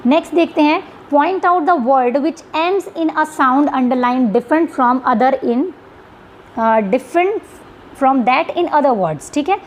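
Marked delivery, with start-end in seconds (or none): 1.1-9.3 reading the question aloud slowly; spelling out an exam question to students. Shown as a demonstration. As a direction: read each word of the question out deliberately.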